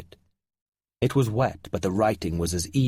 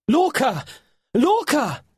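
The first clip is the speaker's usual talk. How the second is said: loud, high yell for a lost friend; yelling a name; 14 semitones higher, 4 dB louder, slower than usual. A narrator's reading. Finn searching the beach for Lorca, loud high calling. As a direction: call out across the beach. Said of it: "Finn yelled".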